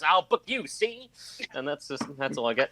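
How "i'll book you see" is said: smart aleck gangster voice; a hint of an old-timey tough guy; old-timey wise guy. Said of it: "an old-timey wise guy voice goes".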